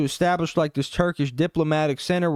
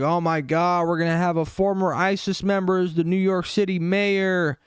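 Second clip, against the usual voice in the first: a slightly raised mock voice for panicking critics; 5 semitones higher than usual. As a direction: lightly parody the outraged critics. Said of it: "They're like".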